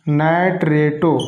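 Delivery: नाइट्रेटो stretched slowly, syllable by syllable; teacher dictating नाइट्रेटो slowly to students; slow, drawn out. Shown as a demonstration. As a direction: spell out नाइट्रेटो slowly for the class to copy. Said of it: "इसका special नाम पड़ेगा".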